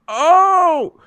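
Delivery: mocking a broadcaster's forced reaction. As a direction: ham up a commentator's fake excitement. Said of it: "it just sounds forced".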